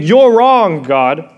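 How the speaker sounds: loud defiant protest at God; angry retort. Retold or imitated. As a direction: Cain snapping back at God in anger.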